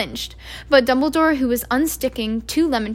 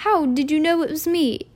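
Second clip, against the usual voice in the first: a hint of a ruffled stern professor, higher; stern witch; 5 semitones higher, 3 dB louder than usual. A narrator's reading. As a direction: put out and a little indignant. McGonagall voiced in story.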